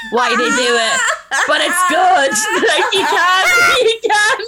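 high, breaking into laughter while talking; can barely get the words out for laughing; laughing hard. Real, not acted. Laughing at the memory while telling friends. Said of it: "laughing through story".

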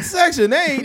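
incredulous high-pitched question; mock surprise. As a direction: shoot the pitch way up in shock. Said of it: "He was like".

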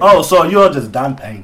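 slow put-on African accent. Host confirming the guest's name, slow mock African accent. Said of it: "talk with an African accent".

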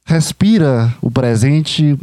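very slow, breathy-free calm invitation to breathe; slow calm guiding. Acted. Host guiding listeners to breathe, slow and calm. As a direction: draw out the words like a meditation guide. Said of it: "Vivencie essa voz".

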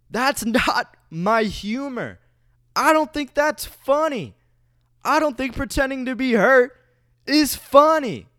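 high, loud mock offense; indignant. Real, not acted. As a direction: protest with exaggerated outrage.

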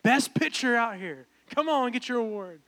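loud, high camp award announcer; calling out names. Retold or imitated. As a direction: call the winner up across a crowd. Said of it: "calling out my brother's name".

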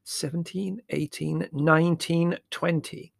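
high, fierce count; mildly fierce, drowning him out. A narrator's reading. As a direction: count pointedly, pitched well up. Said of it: "loudly and fiercely".

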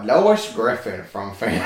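deadpan joke pick with a laugh in it; joking voice. Pretend. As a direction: toss it off as a joke, a chuckle underneath. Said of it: "I said it in Will's joking voice".

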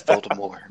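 Voldemort ending on an open R sound; silent final T. Shown as a demonstration. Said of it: "You don't pronounce the T".

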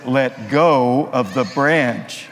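slow, booming voice from the heavens; voice of God. Acted. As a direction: speak slowly like God from the sky. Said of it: "God says".

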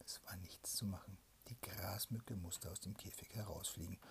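hushed storyteller's whisper; whispered bedtime story. A narrator's reading. Parent whispering a fairy tale to a child at bedtime.

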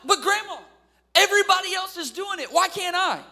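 put-on high, loud pleading kid; protesting child. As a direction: whine it up high like a protesting grandson.

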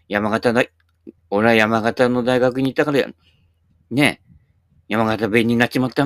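mock Yamagata dialect; Daniel Kahl. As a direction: lightly imitate a foreigner's Yamagata dialect. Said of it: "ダニエル・カールみたいな感じ".

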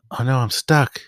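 put-on a small girl whining that she's stuck; little girl voice.

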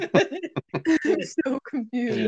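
slow, drawn-out through laughter; laughing confused. Real, not acted. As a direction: stretch it out while laughing.

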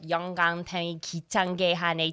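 put-on thick foreign accent in Korean, rattled off fast; quick, thickly accented scripted Korean. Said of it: "thick accent".

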